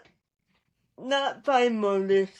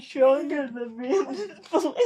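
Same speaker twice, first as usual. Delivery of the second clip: laughing; 2 semitones higher than usual. Real, not acted. Laughing at being manhandled.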